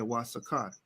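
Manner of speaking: "Oaxaca" said as "WAH-sa-ka", W start, open a's; Hebrew pronunciation. Shown as a demonstration. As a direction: give "Oaxaca" its Hebrew sound, "wa-sa-ka". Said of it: "That's how you say it in Hebrew".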